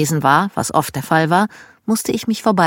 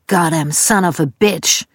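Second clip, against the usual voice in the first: slow, lightly voiced Southern dad; Southern curse. Dad at the front of the house, mild Southern cursing imitation. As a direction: drawl the curse. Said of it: "ertönte ein weiteres".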